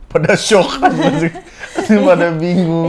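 amused, laughing loudly as you talk. Real, not acted. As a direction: tell it while cracking up. Amused retelling of family's shock.

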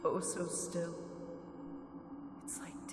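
soft repetitions sinking to a whisper; fading trance murmur. Acted. Entranced Mina murmurs of stillness, fading. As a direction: let each echo die away.

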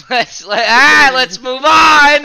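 loud, slow, laughing it out; can barely speak for laughing. Real, not acted. Laughing while trying to move on.

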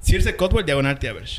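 seductive voice. Acted. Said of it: "Voy a poner mi voz seductora".

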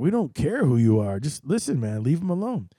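loud, firm brush-off; crowd telling him off. Retold or imitated. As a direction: tell the pushy photographer to back off. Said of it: "people are like".

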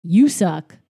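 put-on typical teenager. Host retells son arguing with dad, in a typical teenager voice. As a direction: imitate a teen talking back, with a loud jab midway. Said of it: "the typical teenager thing".

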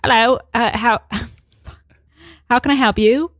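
badly faked Australian, cracking up midway; attempted Australian accent. Drive-through worker greeting a customer, giggly Australian accent. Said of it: "I'll try to do my Australian accent".

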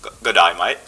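Australian accent. Shown as a demonstration. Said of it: "say good day, mate, in an Australian accent".

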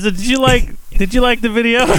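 squeaky high-pitched voice; high mock voice. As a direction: pitch it way up, teasing. Playful mock voice question.

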